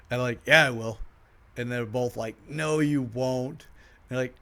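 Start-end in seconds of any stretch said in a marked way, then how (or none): 0.5-1.0 loud, defiant comeback; insistent. Retold or imitated. Answering friends' dare, loud and defiant. 2.5-3.7 slow, sing-song taunt rising at the end; drawn-out taunt. Retold or imitated. Two friends taunting him, slow sing-song.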